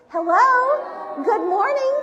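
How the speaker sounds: bright sing-out hello, pitched high; calling out a greeting. Real, not acted. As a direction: greet the online friends in a high, drawn-out call. Group greets online friends.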